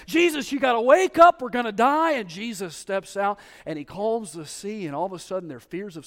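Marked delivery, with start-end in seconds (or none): 0.1-2.1 much higher and louder panic; panicked disciples. Acted. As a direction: yell to wake Jesus in fear. Voicing panicked disciples in storm.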